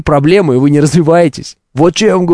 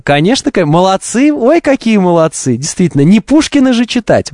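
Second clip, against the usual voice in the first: sarcastic; 3 semitones higher than usual. Retold or imitated. Sarcastic mock praise.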